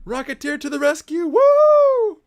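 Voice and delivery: high, loud, fast cheer ending in a whoop. Real, not acted. Fan cheering the Rocketeer's rescue, a high loud whoop.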